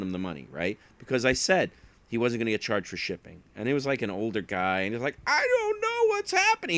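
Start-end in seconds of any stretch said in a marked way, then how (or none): 5.3-6.8 put-on high quavering confused old man. Confused older buyer quoted.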